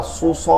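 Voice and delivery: সু, স with a heavy s and rounded vowel; thick saad. Shown as a demonstration. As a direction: correct the learner with a thick সু, স. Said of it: "মোটা". (সু, স মোটা করে)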